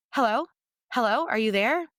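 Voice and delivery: high, anxious calls into silence; calling out. Acted. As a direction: reach for her before she's gone. Calling after the rescuer leaves.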